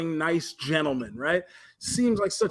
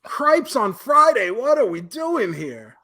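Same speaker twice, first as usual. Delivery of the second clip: exasperated exclamation; 3 semitones higher, slower than usual. Real, not acted. Fed up with the documentary, exasperated exclamation. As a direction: throw your hands up in disbelief.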